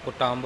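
ਕੁਟੰਬ said lightly, its ending soft; soft pronunciation. Shown as a demonstration. Teacher correcting a reader, ਕੁਟੰਬ pronounced softly. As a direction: say ਕੁਟੰਬ gently, without hardening it. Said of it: "ਪੋਲਾ ਬੋਲਣਾ".

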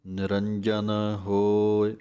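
ਨਿਰੰਜਨ with a firm, pressed ਜ; slow recitation, ਜ in ਨਿਰੰਜਨ stressed hard; ਜੱਜਾ ਜ਼ੋਰ ਨਾਲ. Shown as a demonstration. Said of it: "ਜੱਜੇ ਉੱਤੇ ਜ਼ੋਰ ਦੇ ਕੇ ਬੋਲਣਾ ਹੈ।".

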